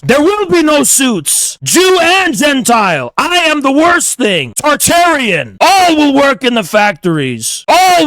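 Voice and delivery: a villain's boast, shouted; proud shout. Real, not acted. Boasting to his critics that he is the worst, shouted. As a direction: bellow the boast at full voice.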